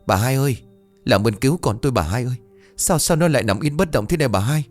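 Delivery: desperate begging. Acted. Parents begging the healer.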